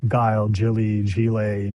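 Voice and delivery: "Guile", "Gilly", "Gile" as separate misreadings; distinct vowels for "Guile", "Gilly", "Gile"; listed mispronunciations. Shown as a demonstration. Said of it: "because of how my name is spelt".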